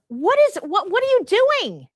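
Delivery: alarmed demand. Retold or imitated. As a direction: demand an answer, shocked and loud. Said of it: "and I said".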